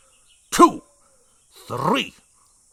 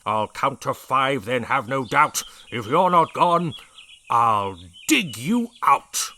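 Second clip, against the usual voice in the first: yelling; 8 dB louder than usual. A narrator's reading. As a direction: yell the rhyme at the pests. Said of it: "he yelled at the termites".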